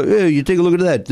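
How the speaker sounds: lightly imitated lovable numbskull boxer; a hint of dopey Rocky; Stallone. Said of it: "in his numbskull way".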